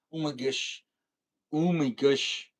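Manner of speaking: "Oh my gosh" as "ooh muh goosh"; altered pronunciation. Shown as a demonstration. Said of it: "Is it "oh my gosh" or".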